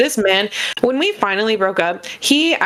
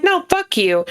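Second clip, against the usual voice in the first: angry yell; 9 semitones higher, slower than usual. Retold or imitated. Retold refusal to ex.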